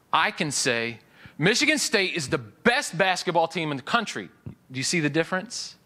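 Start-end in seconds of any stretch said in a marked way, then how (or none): 1.4-4.3 a touch of declaring it as settled truth; lightly proclaimed, not just stated; mild proclamation. Shown as a demonstration. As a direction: announce it like a confident fan. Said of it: "One is a proclamation or a declaration".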